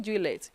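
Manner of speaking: juillet with the L and T sounded, "jwee-let"; mispronounced juillet. Shown as a demonstration. Teacher warns students against this mistake, juillet said with hard L and T. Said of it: "It's not juillet".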